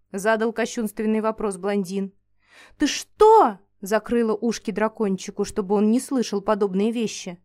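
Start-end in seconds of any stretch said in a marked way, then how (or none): 2.8-3.6 loud, high indignant retort. Acted. Heroine shields the dragon from the blond's question, indignant outburst. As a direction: snap back in outrage to protect the pet. Girl outraged at killing the dragon.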